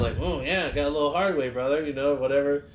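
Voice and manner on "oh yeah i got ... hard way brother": a touch of a joking wrestler, easy and cocky. Retold or imitated. Wrestler laughing off his bleeding nose, lightly cocky. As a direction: toss it off like a tough guy joking. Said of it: "joking around".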